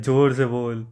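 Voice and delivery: loud order. Acted. MC ordering the brother to speak up, loud command. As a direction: bark it at him.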